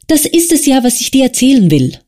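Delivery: a weak friend begging to be let go; pleading Wasja. Acted. Wasja begging Arkadi to release him, pleading.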